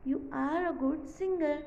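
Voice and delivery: very slow, word by word; slow model reading; slow short form reading. Shown as a demonstration. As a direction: read the contraction slowly. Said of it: "So ये कुछ इस तरह लिखे जाएगा".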